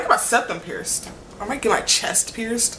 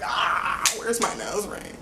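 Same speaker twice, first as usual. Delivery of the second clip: frantic hush; 5 dB quieter, slower than usual. Retold or imitated. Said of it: "I was, like, frantic".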